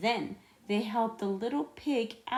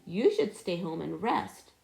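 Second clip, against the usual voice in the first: worried cry; 3 dB louder than usual. Acted. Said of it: "Emily Elizabeth cried".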